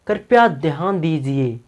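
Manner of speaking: slow, formal station call; announcer voice. Shown as a demonstration. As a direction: announce it politely to the platform. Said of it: "Hindi में कैसे बोलते हैं". (Railway announcer की तरह)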